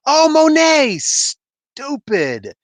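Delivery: high, loud put-down that drops on stupid; a light sneering jab; mock sneer. Monet mocking Cable for not knowing her, light sneer.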